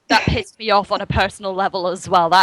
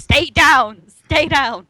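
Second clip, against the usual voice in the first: bird-footed Vader; 6 semitones higher, much slower than usual. Retold or imitated. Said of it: "It's a lot less threatening when you do it that way".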